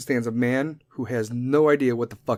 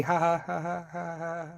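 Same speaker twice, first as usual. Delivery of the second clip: higher, soft forced ha-ha; fake laugh; 4 semitones higher, 8 dB quieter than usual. Laughing it off to the officer, forced and fading. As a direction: trail off into a quiet fake laugh.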